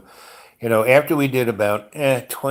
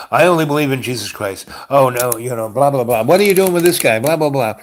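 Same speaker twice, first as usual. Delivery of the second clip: louder, rising mock outburst; retold freak-out; 3 semitones higher, 5 dB louder than usual. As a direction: imitate someone freaking out, building louder and higher. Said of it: "she freaked out and said".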